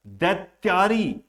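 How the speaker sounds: दैत्यारी with weight on त्या; stress on long vowel. Shown as a demonstration. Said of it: "वहीं पर ज्यादा जोर दिया जा रहा है".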